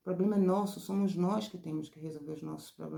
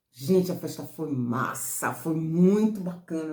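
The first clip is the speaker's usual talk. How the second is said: louder and slow, gushing with delight; excited; 6 dB louder, slower than usual. Shown as a demonstration. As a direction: rave about the party. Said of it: "Um oral não vai dizer". (contando da festa, toda empolgada)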